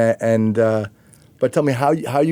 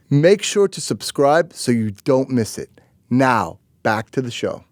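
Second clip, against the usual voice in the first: scripted announcer read, measured phrasing with lifted key words; podcast host promo read; 3 semitones higher than usual. Acted. Host plugs next week's guest to listeners, polished promo read.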